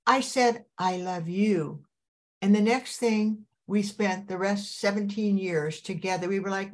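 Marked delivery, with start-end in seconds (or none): 0.8-1.9 slow, earnest I love you; serious and sincere. Retold or imitated. Wife retelling saying it back to her husband, slow and earnest. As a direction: say it back slowly, meaning every word. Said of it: "the way he said it to me".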